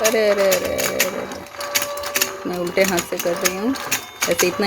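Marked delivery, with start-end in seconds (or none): 0.1-2.5 fading from exclaim to a whispered arre; breathy exclamations. Real, not acted. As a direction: trail off into a whisper while fumbling. Struggling with toy left-handed.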